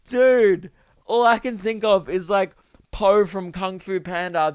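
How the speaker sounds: excited. Real, not acted. Excited outburst.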